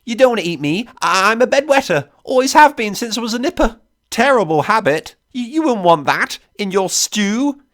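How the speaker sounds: high-pitched, babbling nervous excuses; frightened stutter, voice pitched high; stammering panic. A narrator's reading. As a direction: plead desperately, tripping over the words. Captive stammering excuses for his life.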